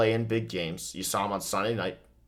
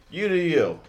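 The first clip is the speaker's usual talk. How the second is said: mock sing-song dismissal; 9 semitones higher, 4 dB louder than usual. Dismissive shrug-off to viewers.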